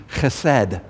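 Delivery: "Chesed" with a throaty kh at the start; guttural Hebrew pronunciation. Shown as a demonstration. Teacher leading congregation to repeat it, "Chesed" with guttural kh. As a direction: say "Chesed" as kheh-SED, rasping the first sound. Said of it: "to say it properly".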